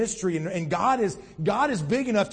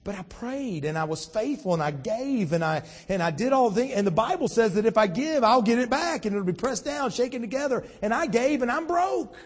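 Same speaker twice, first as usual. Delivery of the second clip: frustrated complaint; 5 semitones higher than usual. Acted. Believer protesting to God after giving and going broke, frustrated complaint. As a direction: build to an exasperated high finish.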